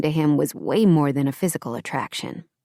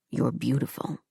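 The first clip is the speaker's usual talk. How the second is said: whispered; 5 semitones lower, 7 dB quieter than usual. A narrator's reading. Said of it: "he whispered".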